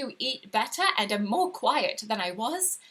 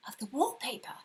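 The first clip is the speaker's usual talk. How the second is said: whisper; 7 dB quieter than usual. A narrator's reading. Eerie confession about the wallpaper.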